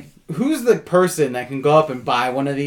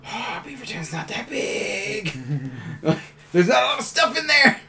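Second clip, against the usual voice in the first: mock high voice; 8 semitones higher, 3 dB quieter than usual. Teasing a guy from Beaverton, mock high voice. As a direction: squeak it in mock sympathy.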